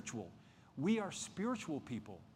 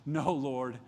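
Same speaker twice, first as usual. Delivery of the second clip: loud, condescending mock rebuke; 4 dB louder than usual. Peter pulls his Lord aside to correct him, condescending. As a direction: imitate a patronizing correction, firm and loud. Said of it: "in a very condescending way, says".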